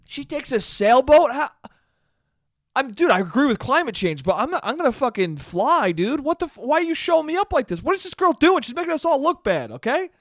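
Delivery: lightly voiced, hammed-up petty science guy; jealous ranting Bill. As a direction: whine like a rival upstaged by a kid. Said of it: "Being like".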